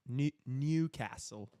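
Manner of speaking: Geordie accent, "Newcastle" as "Nyewcassel", stress on the first part; a second go at the Geordie accent; halting Geordie accent. Shown as a demonstration. Streamer retrying "Newcastle" in a Geordie accent. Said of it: "how to say it in the accent".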